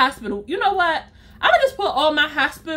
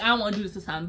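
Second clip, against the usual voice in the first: quiet, low inner voice; thinking it to herself, hushed; inner thought; 6 semitones lower, 7 dB quieter, much faster than usual. Retold or imitated. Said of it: "in my head".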